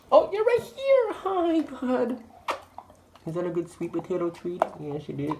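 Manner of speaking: high, sing-song dog praise; talking to a dog. Real, not acted.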